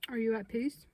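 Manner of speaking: whispered question, breathy and hushed. Real, not acted. Whispering a question to the spirits. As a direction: ask it under your breath.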